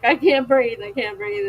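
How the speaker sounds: replaying her hospital panic attack; mock panic. Retelling her hospital panic to viewers, mock panicked gasp.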